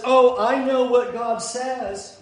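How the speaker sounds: slow, knowing mock-confident tone; smug false prophet. Preacher mimicking a false prophet, slow and smug. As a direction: lightly voice a smug know-it-all.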